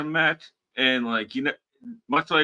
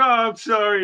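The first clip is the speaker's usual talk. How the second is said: put-on pleading tone, higher and louder; 10 semitones higher, 4 dB louder than usual. Retelling how a wrestler apologized to the referee: imitating Jonathan Gresham begging off. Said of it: "and begging off".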